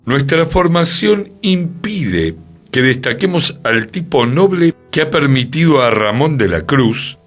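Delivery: declamatory reading, pitch lifted at the start; formal quotation reading. Acted. Host quoting a text on theatre to listeners, formal declaimed reading. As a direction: read it out like a stage proclamation.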